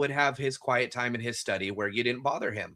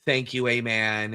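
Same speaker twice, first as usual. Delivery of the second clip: slow rote prayer ending; slower than usual. Retold or imitated. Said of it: "it wasn't a prayer".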